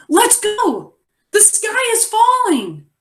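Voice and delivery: high, urgent yell-like reading; excited exclamation. Shown as a demonstration. Teacher modelling exclamation for the class, excited and high. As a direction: read it with the exclamation oomph. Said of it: "you might be able to say".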